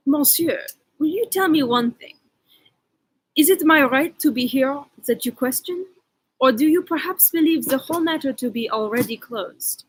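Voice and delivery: a hammed-up French accent, only lightly put on; mock French accent for the Frenchman; horrific French accent. The reader voicing the Frenchman in a mock French accent. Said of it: "read it in a horrific French accent".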